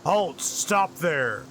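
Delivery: a hint of a gruff giant; lightly voiced gruff challenge, mild yell. Giant halts the passing party, mild gruff yell. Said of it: "a loud, gruff voice yell out".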